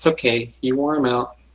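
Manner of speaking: whispered line. Playing a character who whispers reassurance to Volan: whispering in character. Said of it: "I'm gonna whisper to Volan".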